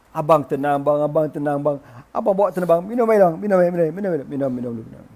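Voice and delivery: repetitive soothing patter that fades away; calm them down urgently, then trail off; hurried calming. Acted. Wife calms her raging husband, hurried soothing. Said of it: "Lalu bini tu tenangkan suami dia".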